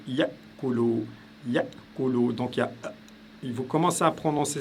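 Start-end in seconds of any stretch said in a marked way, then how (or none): 0.1-2.3 yakulu with the first syllable cut off by a glottal stop; glottal stop demo. Shown as a demonstration. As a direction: say «yakulu» as ya, a catch in the throat, then kulu. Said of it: "c'est comme si vous commenciez à prononcer".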